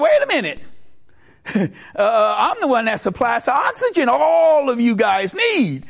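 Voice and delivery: high, forceful interruption; mock-indignant boast in a joke; indignant objection. Lungs interrupt to claim importance.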